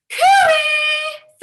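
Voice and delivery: high, loud cooey call to the far corner. Shown as a demonstration. Teacher calling across the room to the class, a high loud cooey. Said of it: "in the corner of the room and go".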